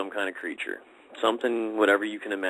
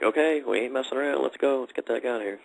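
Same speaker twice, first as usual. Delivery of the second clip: voicing his girlfriend, mildly urgent, a bit raised; retold urgent urging; 5 semitones higher than usual. Man retelling his girlfriend urging everyone to leave, mildly urgent. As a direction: re-enact someone hurrying the group away.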